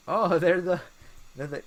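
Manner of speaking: laughing realization. Real, not acted. Realizes they are the ink blobs.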